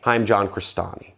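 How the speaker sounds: authoritative, tune sloping down; downward sloping tonality. Shown as a demonstration. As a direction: introduce yourself with a falling, sure tone. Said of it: "speaking with a downward sloping tonality".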